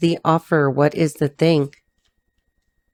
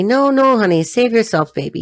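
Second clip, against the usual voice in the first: teasing; 5 semitones higher, 3 dB louder than usual. Real, not acted. Teasing the man's plea.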